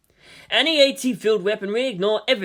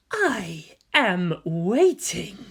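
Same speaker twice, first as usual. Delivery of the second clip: very slow, drawn-out eerie voice; eerie giant voice; much slower than usual. Acted. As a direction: let each word hang ominously. Faceless giant speaks through distance.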